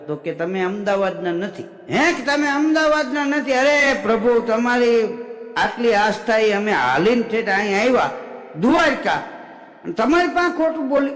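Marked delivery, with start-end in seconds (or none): 1.6-3.5 higher, incredulous "હે, કે તમે અમદાવાદના નથી?" with અમદાવાદના rising; shocked disbelief. Acted. Pilgrim repeats the idol's words in stunned disbelief. 3.5-11.1 indignant protest. Acted. Pilgrim protests his honesty to the idol, indignantly.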